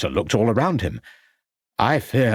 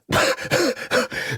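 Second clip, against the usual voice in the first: spluttering cough; 14 semitones higher than usual. A narrator's reading. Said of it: "spluttered Shorter".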